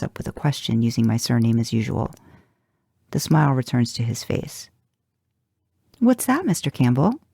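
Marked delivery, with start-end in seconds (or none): 6.0-7.2 high, giddy and smitten. A narrator's reading. Librarian answering Dean's question with giddy delight. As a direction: answer Dean with a way too giddy smile. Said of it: "way too giddy smile".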